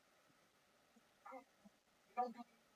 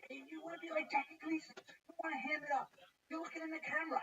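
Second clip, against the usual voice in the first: higher-pitched, needling call-out; mock scolding director; 7 semitones higher than usual. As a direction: challenge him like an irritated director. Acting out director scolding him on set.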